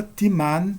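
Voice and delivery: "timan" stressed on the last syllable, MAN; final-syllable stress. Shown as a demonstration. Teacher showing circumflex examples, "timan" stressed on MAN. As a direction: put the weight on MAN in "timan". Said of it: "Na última sílaba".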